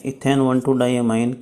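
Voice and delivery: name repeated very slowly, syllable by syllable; "ethane one two diamine" drawn out, rising on "two"; slow dictation. Shown as a demonstration. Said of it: "जो E N है". (बहुत धीरे, शब्द-शब्द दोहराते हुए)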